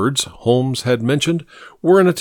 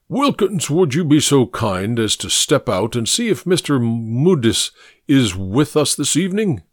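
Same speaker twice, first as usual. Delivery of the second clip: pompous senator oratory. Acted. Mycroft voiced.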